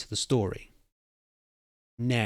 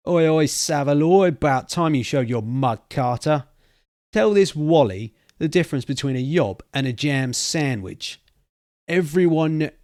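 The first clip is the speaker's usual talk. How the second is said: loud hearty greeting across the room; calling out; 4 semitones higher, 6 dB louder than usual. Acted. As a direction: hail a friend at the door, loud. Jake calls out to newcomer.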